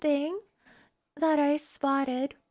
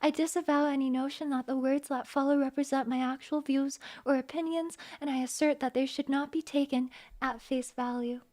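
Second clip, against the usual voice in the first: formal disclaimer. Acted.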